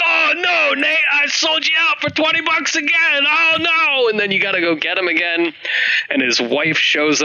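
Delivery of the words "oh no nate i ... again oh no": high, whiny, hammed-up Sam voice; whiny Sam impression. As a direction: whine it like a helpless little brother. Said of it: "he's like".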